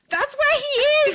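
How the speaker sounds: high, loud mock British yell; hammed-up sister screaming at her mom; imitated screaming. Emily arguing with her mom over Ben, imitated screaming. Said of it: "screaming at her mom about where Ben is".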